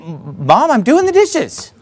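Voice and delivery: proud son. Retold or imitated. Son answering mom, proud.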